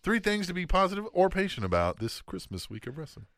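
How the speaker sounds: talking through hiccups; hiccuping between words. Real, not acted. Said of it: "you are really struggling with those hiccups".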